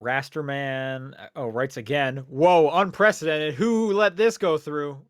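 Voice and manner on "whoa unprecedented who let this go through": slow, loud, high mock shock; mock astonishment. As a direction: ham up the disbelief. Mock shock at a repeat listener.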